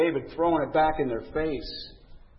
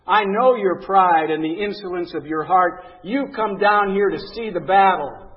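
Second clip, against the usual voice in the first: angry big brother; 5 dB louder than usual. Retold or imitated. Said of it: "Eliab's anger was aroused against David".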